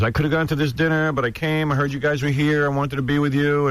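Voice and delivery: lightly voiced woman gushing; a hint of an eager guest. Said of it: "She goes".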